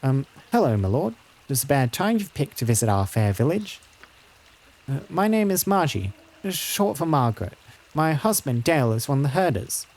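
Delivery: lightly voiced worried village woman; a hint of a deferential, fretful wife; polite herder's wife. Herder's wife telling a lord of the wolves, lightly voiced and polite.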